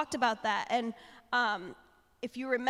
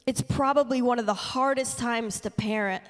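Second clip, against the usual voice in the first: louder, building sermon delivery; passionate preaching; 4 dB louder than usual. Acted. Speaker urging parents to pray for their kids, louder preaching. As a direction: preach it with rising conviction.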